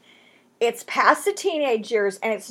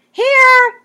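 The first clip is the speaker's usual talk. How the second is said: curt reply; 12 semitones higher, 9 dB louder than usual. Pretend. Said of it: "He could have just said".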